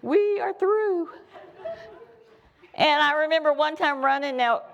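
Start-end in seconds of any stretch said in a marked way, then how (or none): 0.0-1.1 laughing. Real, not acted. Laughing after teen quote.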